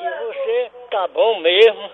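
lightly put-on old man's voice. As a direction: play a doddering old husband on the phone. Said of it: "Fala de velho".

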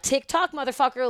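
high-pitched mock countdown taunt; retold taunt. Clown warning the driver time is running out, retold taunt.

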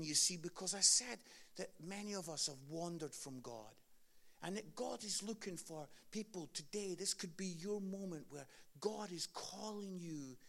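soft, earnest preaching; gentle preaching. Acted. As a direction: preach softly and sincerely. Preaching close of sermon.

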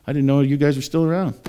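high-pitched mock amazement; incredulous mocker. Listener doubting the preacher's book, mock incredulous. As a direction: act floored that anyone believes it. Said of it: "kinda like".

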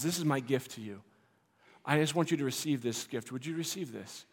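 softly offering a gift, a light painter voice; gentle offering. Pretend. Vincent softly offering his painting to us, gentle. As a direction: hand it over gently and quietly. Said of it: "And he says".

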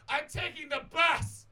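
loud slow high proclamation; drunk declaration. Retold or imitated. Drunk Gabby announcing to the street, loud and slow.

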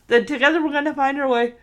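mid-yawn, words stretched by a yawn. Real, not acted. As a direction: say it through a yawn. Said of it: "Ugh, sorry for yawning".

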